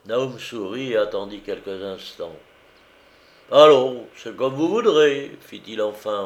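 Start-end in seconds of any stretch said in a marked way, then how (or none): 3.5-5.4 louder, higher, offhand concession; shrugging concession. A narrator's reading. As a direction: toss it off with a shrug. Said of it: "haussant légèrement les épaules".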